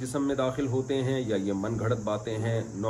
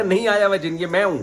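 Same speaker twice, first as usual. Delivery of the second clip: higher and louder, yelling that it is really him; retold desperate yell; 7 semitones higher, 7 dB louder than usual. Beaten boy yells at his teacher that no jinn came, a loud desperate cry. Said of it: "کہہ رہا".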